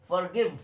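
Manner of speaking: "forgive" with a silent r; model pronunciation. Shown as a demonstration. Teacher showing pupils how to say forgive, model pronunciation. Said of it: "এরকম উচ্চারণ হবে".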